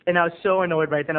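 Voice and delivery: usual speaking voice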